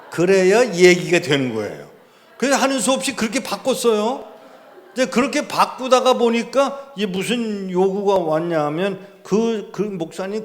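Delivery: loud, high, laughing through the words; can't help laughing at the story; laughing loudly. Real, not acted. Laughing about the translation.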